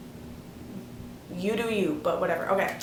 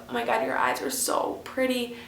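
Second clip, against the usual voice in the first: breathy whisper; 8 dB quieter than usual. Retold or imitated. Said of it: "he's like".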